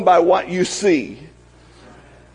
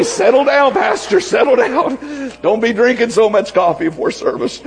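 mock congregation; 4 semitones higher than usual. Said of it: "You need to say".

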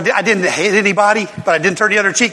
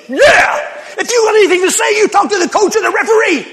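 loud, high, heated retort; shouting; 14 semitones higher, 5 dB louder than usual. Retold or imitated. Preacher retelling telling off the coach, loud heated shout. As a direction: tell him off, raised voice.

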